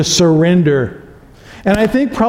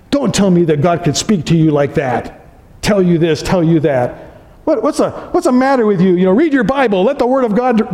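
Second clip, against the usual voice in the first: lightly hammed-up affront, faster in the middle; mock offended. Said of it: "we'll get offended".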